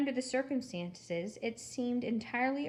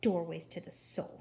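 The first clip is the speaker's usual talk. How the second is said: lower, spluttering disbelief; sputtering; 4 semitones lower than usual. Acted. Eugenia repeating Gladys before slamming the phone, sputtering. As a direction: spit the words back in outrage. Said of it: "sputtered Eugenia".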